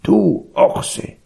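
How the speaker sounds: high, put-on donkey voice; high animal-character rebuke; scolding donkey. A narrator's reading.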